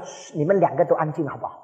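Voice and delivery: calm them with a low shush; retold shushing. Husband to panicking wife and mother-in-law, low retold shushing.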